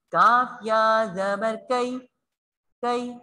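कई said quickly and softly, not drawn out. Shown as a demonstration. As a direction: glide through कई lightly. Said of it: "जल्दी और नरमी से".

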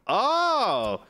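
loud high surprised gasp; startled, loud, rising oh. Real, not acted. Excited exclamation at event.

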